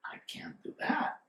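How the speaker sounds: very soft, near-whispered realization; retold aside under the breath; hushed admission. Acting out Shoba's realization.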